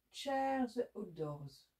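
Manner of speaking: very slow, deliberate English accent; French speaker's careful attempt at English. Real, not acted. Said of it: "Avec mon super accent anglais".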